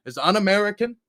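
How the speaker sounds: mock preacher, loud and fervent; megalomaniac rant. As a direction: ham up a patriotic sermon.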